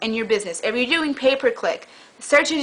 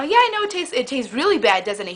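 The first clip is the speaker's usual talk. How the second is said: cheery agreement. Retold or imitated. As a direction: sing it out sweetly, unbothered. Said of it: "she was cheery like".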